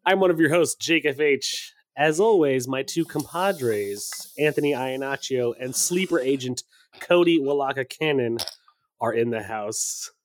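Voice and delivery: put-on hammy Russian accent intro. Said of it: "you could do the whole episode in a Russian accent".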